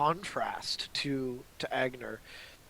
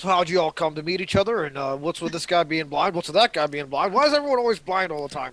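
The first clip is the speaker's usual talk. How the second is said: eager questioning; 3 semitones higher, 6 dB louder than usual. Acted. Rory asks new companions about each other, eagerly inquisitive. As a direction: pile up the questions with growing curiosity. Rory's barrage of curious questions.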